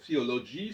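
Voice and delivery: "theology" said the English way, with the th sound. Shown as a demonstration. Lecturer showing the English th in "theology". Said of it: "Donc, theo".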